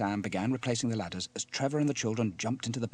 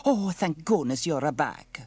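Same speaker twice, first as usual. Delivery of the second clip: high, slow, loud fretting; Bella, anxious; 6 semitones higher, 7 dB louder, slower than usual. Acted. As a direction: gush with anxious relief, drawing words out. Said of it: "said Bella anxiously".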